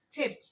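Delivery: चिप ending on a light p; example word demo. Shown as a demonstration. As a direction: stress the final p of चिप. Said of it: "किसकी आवाज़ प से निकल रही है".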